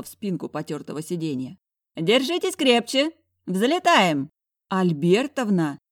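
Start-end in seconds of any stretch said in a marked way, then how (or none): 2.0-4.3 put-on old woman voice. Old lady driving wildly. 4.7-5.8 loud, slow hoarse croak. Acted. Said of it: "прохрипела я".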